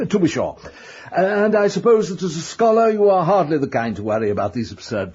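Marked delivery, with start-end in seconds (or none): 0.1-0.6 a little laugh, then the words; nervous laugh. Acted. Landlord to tenant, laughing off the rumours, nervous chuckle. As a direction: laugh it off uneasily.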